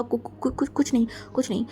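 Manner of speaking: soft, stammering nervous denial; flustered stammer. Acted. Sister caught at the window stammering nervously. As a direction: stutter it out like a caught thief. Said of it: "ऐसे घबरा गया".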